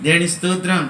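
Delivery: loud preacher's praise; loud praise exclamation. Real, not acted. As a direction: Praise God called out loud to the hall.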